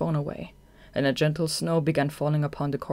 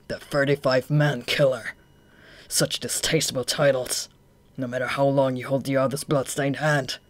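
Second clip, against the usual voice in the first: cold villain voice; 4 dB louder than usual. Acted. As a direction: sneer down at them. Akutagawa taunts coldly.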